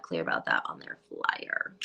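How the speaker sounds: muttered emphatic repeat. Real, not acted.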